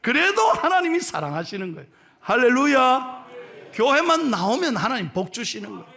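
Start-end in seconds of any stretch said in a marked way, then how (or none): 2.2-3.3 1 hallelujah call. Real, not acted. Preacher's exclamation.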